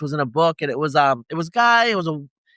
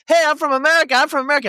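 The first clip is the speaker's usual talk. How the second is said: high, louder excited retold shout; thrilled greeting; 8 semitones higher, 3 dB louder, faster than usual. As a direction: mimic someone overjoyed to meet a compatriot. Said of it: "super happy to see him".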